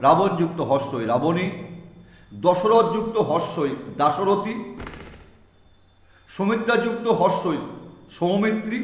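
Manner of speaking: slow, spaced-out teacher's dictation. Shown as a demonstration. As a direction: spell it out slowly for students to write. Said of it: "teacher dictating examples". (ধীরে ধীরে শ্রুতিলিখন দেওয়ার মতো)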